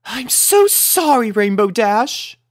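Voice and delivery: high, loud gentle sorry; gracious lady apologizing; soothing apology. A narrator's reading. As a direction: soothe her friend. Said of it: "soothed Rarity".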